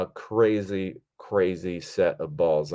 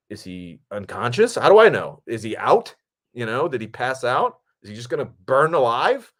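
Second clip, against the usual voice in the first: mildly panicked questions, pitched up; retold alarm; 4 semitones higher, 4 dB louder than usual. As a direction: replay the worried thoughts, rising at the ends. Retelling his panicked thoughts on set.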